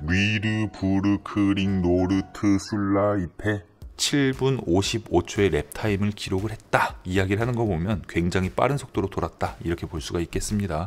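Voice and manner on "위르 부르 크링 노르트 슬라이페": slow, careful, deliberate, distinct syllable-by-syllable enunciation. Pronouncing a long name clearly for listeners: slow, syllable by syllable. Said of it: "제가 좀 발음을 또박또박 해야 되니까 천천히 말씀드리면".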